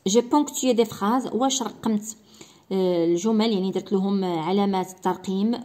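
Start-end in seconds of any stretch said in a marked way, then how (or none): 0.1-1.3 very slow, deliberate reading; slow reading aloud. Shown as a demonstration. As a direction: read each word clearly for pupils. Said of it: "reading a checklist slowly". (قراءة بطيئة جدا)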